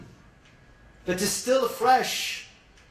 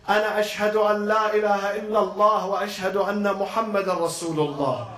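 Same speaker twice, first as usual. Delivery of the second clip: rapid Arabic recitation; much faster than usual. A narrator's reading. Priest recites shahada in Arabic.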